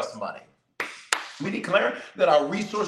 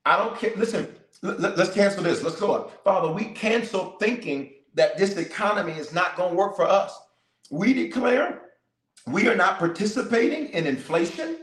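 fervent preacher declaring; preaching declaration; 3 semitones higher than usual. Acted. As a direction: declare it to the congregation with fire.

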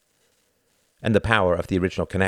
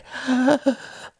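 sobbing breath. A narrator's reading. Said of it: "The voice broke down into sobs".

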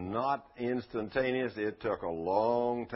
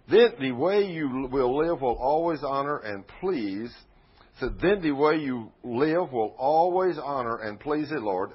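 slow, weighty, louder reading; emphatic scripture reading; 6 dB louder than usual. Acted. Preacher reading the verse to the congregation, emphatic. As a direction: read the verse out deliberately, word by word.

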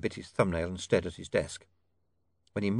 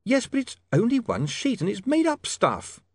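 put-on higher, earnest young man's voice; young reporter; 4 dB louder than usual. A narrator's reading. William brushing off the rival paper, higher earnest voice. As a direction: play William as eager and dismissive.

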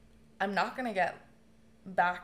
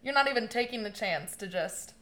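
much louder, incredulous retold rant; exasperated outburst; 2 semitones higher, 11 dB louder than usual. Telling her dying mom to rail on everyone, exasperated and loud. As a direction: let it burst out, half fond and half furious.

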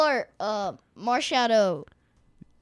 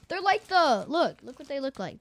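delighted opening a present; 3 semitones higher than usual. Real, not acted. Gasps on opening the bag.

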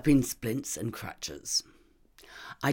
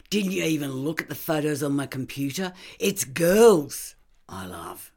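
flaring up; 2 semitones higher than usual. Acted. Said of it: "He flared".

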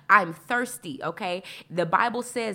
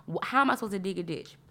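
whiny complaint; 2 semitones higher than usual. Retold or imitated. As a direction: act out her old self arguing with the Lord. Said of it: "I would have said".

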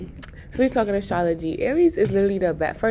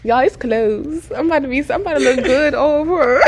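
higher, giggling through the words; laughing apology; 5 semitones higher than usual. Real, not acted. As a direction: apologize while cracking up. Host apologizes laughing at interruption.

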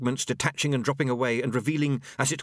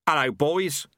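pleasant greeting; 5 semitones higher, 4 dB louder than usual. Acted. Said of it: "said Chaos pleasantly".

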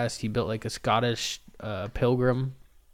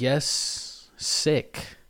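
the word sick drawn out and breathed, unvoiced; stretched sick; 4 semitones higher than usual. Shown as a demonstration. Podcaster playing on sick as slang. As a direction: lean into sick as his style slang. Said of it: "I got sick last week".

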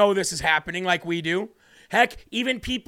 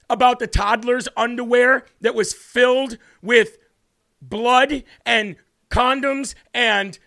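retold heated challenge to the audience; retold confrontation; 3 semitones higher than usual. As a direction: press them hard and make them answer. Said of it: "And I'm like".

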